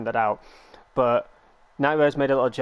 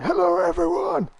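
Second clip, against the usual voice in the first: loud hello; 3 dB louder than usual. Retold or imitated. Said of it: "you're like".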